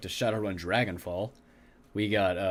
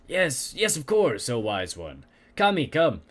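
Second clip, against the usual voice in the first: vampire voice; slower than usual. Acted. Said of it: "speak like a fucking vampire".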